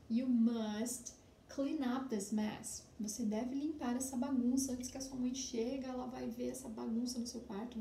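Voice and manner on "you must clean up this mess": You must clean up this mess, each word drawn out slowly; very slow model sentence. Shown as a demonstration. Teacher reading slowly to students so they can follow. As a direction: read the sentence aloud slowly for the class. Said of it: "esta bagunça".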